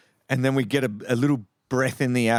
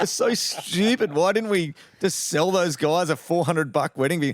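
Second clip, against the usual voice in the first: amused disbelief; 5 semitones higher than usual. Real, not acted. Laughing at own foolishness.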